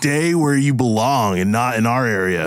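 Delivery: high-pitched confrontational heckling; hostile bully. Acted. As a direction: lay into the monster, accusing. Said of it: "he actually yells at the".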